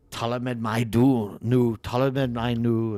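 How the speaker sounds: joking fake Danish, slow; playful put-on Danish gibberish; mock Danish. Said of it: "kidded around with Danish language".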